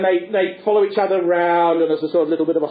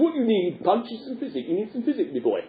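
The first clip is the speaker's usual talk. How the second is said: puppet doctor; 3 semitones higher, 5 dB quieter than usual. Acted. Doctor prescribes to Punch.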